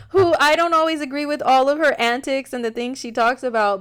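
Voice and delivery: talking through laughter; laughing. Real, not acted. Laughs about Wendy.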